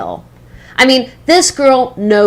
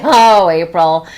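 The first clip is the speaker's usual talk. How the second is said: lower, drawn-out "oh", mock exasperation; lightly exasperated, in a lower pitch; indulgent eye-roll; 5 semitones lower than usual. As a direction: say it like a fond, weary boss. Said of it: "I usually just roll my eyes and say".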